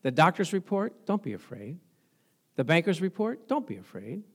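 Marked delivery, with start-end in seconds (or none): 1.1-1.8 reassuring. Real, not acted. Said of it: "a true believer should not be afraid". 3.5-4.2 reassuring. Real, not acted. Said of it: "a true believer should not be afraid".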